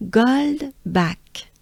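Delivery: "Gold back" in an exaggerated French accent; slow, Frenchified "Gold back" demo; "Gold back" à la française; Frenchiest gold back. Shown as a demonstration. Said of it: "This is the Frenchiest way I can think of".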